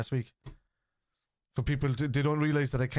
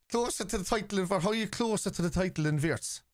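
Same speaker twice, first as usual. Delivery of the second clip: incredulous; 5 semitones higher than usual. Real, not acted. Mocking repeat of the comment.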